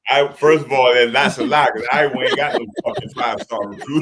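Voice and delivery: breaking into laughter while objecting; laughing protest. Real, not acted. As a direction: laugh through a scoffing denial. Laughing at the commentator claim.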